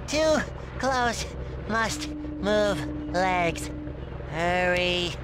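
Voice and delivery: halting, one word at a time; slow, effortful panic with gaps; straining in panic. Acted. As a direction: struggle to force each word out. Frozen as boat approaches.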